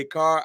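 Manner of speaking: "car" ending on the vowel, R silent; dropped R. Shown as a demonstration. Explaining why people tease the word "car", dropped R. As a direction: drop the R off the end of "car". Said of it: "we don't say our R's".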